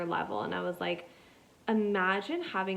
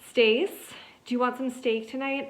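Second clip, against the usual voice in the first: higher, louder playful call to her husband; mock wife calling; 5 semitones higher, 4 dB louder than usual. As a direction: sing out "Stace" across the kitchen. Voicing Stacy the wife.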